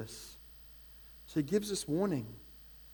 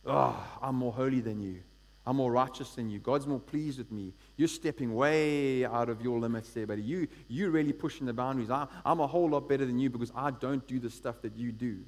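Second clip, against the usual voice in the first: lower, smug and superior; self-righteous; 6 semitones lower than usual. Retold or imitated. Weak Christian judging stronger brother, lower smug voice. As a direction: look down your nose at them. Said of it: "look and go".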